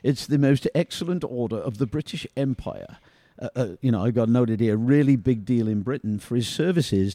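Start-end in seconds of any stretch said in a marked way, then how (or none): 0.0-3.0 a light touch of posh British accent on "It's the most excellent order of the British Empire". Shown as a demonstration. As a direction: read the title in a lightly posh British accent, just a hint. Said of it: "I'm gonna do this in the posh accent".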